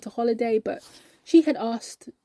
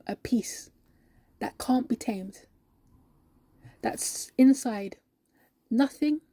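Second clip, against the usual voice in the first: measured, heartfelt pauses between phrases. Acted. Believer affirms her inner joy.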